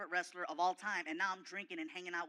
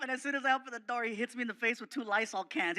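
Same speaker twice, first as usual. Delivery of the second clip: normal talking voice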